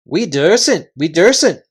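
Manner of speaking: frightened chorus. Acted. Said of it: "said all the voices".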